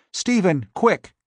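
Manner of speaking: high panicked call; frightened cry. Acted. Marion calling Stephen in terror, high. Marion flees the house screaming.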